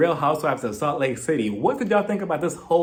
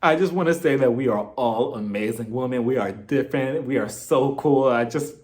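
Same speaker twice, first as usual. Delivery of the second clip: mock teary speech; 3 semitones lower than usual. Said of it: "She's just like".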